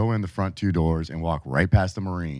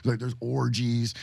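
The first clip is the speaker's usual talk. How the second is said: raised, gushing recruiter pitch; mocking the recruiter; 6 semitones higher, 3 dB quieter than usual. Mimicking the recruiter bragging to the narrator. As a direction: hype it up like a salesman selling the party life. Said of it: "he's like".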